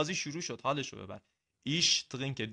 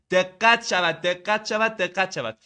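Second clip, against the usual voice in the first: emphatic call to attention; 3 semitones higher, 5 dB louder, slower than usual. Real, not acted. Teacher calls for attention.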